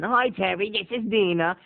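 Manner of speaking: imitated Italian-accented phone hello; thick Italian accent. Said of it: "she had a really thick Italian accent".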